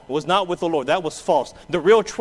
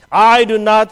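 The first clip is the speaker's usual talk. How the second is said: loud, high outburst; cursing denial; 6 semitones higher, 11 dB louder than usual. Acted. Peter cursing and swearing at the crowd, loud and high. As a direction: snap it out, cursing. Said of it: "he began to curse and swear".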